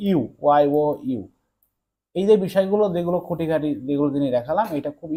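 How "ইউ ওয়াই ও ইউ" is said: "ইউ", then split as "ওয়াই ও", then whole; sound breakdown. Shown as a demonstration. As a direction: demonstrate "ইউ" through its parts "ওয়াই ও". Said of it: "ভাওয়েলটা tricks মনে রাখবে". ("ইউ" ধ্বনি ভেঙে আবার জুড়ে বলা)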